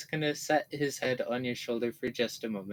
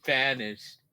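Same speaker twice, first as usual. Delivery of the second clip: mock dramatic; 7 dB louder, slower than usual. Mock self-pity after remarks.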